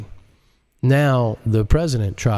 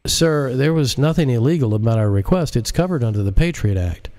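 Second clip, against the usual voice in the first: a raised, stiff official voice; lightly voiced uptight government man; defensive director; 4 semitones higher than usual. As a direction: insist on it like a bureaucrat covering himself. Director Martin character voice.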